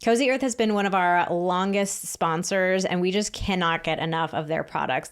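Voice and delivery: upbeat podcast ad read. Acted. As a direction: sell it like a sponsor spot. Reads a sponsor ad.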